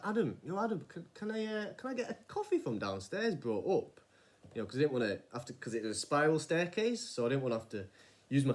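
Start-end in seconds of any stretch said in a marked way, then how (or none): 0.0-4.0 high calling voice, raised to carry; calling out to Adam. Retold or imitated. Calling to Adam for a coffee, high and raised. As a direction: call your friend from across the shop.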